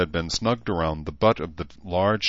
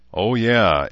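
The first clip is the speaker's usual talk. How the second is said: chuckling; 4 semitones higher, 6 dB louder than usual. A narrator's reading. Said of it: "Edmund chuckled".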